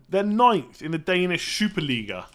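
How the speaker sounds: slow, lightly put-on Danish accent; a half-hearted stab at a Danish accent on Superliga; odd Danish-ish accent. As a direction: vague mock Danish accent. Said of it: "I don't know why I said it with that accent".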